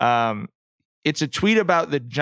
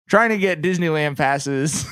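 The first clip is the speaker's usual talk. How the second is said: breaking into real laughter mid-line; laughing; 2 semitones higher than usual. Real, not acted. Laughs at his own ticket refreshing.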